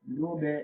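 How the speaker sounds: লোভে with a falling echo after the b; downward pull on b. Shown as a demonstration. Teacher showing lip movement for ba, downward b release. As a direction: let the b of লোভে drop into a short "be". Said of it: "হ্যাঁ, এরকম টান দিয়া".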